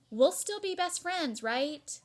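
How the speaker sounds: put-on high worried child. Pinky's worried question voiced.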